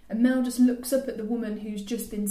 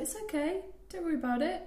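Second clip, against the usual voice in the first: reassuring; 7 semitones higher, 6 dB quieter, faster than usual. Retold or imitated. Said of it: "And then Ree was like".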